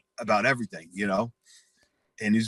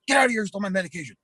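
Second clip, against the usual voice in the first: high-pitched mock yell held through; acted-out hothead hollering; imitated yelling; 8 semitones higher, much faster than usual. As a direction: repeat the outraged eviction for comic effect. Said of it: "neighbors don't need to fucking hear".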